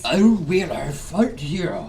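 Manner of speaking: mock Japanese accent in English; fake Japanese. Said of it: "I could do fake Japanese".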